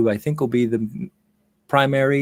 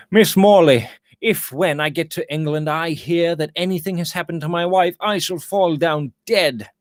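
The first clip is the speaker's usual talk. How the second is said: a miner blurting out his dread, a touch higher; anxious miner; 6 semitones higher than usual. Acted. Talby crying out to the governess in mild dread. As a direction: cry out the fear abruptly but held back.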